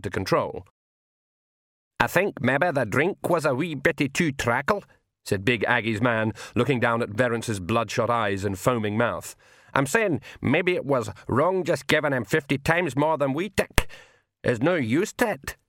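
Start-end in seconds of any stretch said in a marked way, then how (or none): 2.0-4.8 lightly Scottish pixie voice; a gruff little Feegle, a bit worried. A narrator's reading. Feegle speaks in story. 9.7-15.6 lightly Scottish pixie voice; a gruff little Feegle, a bit worried. A narrator's reading. Feegle speaks in story.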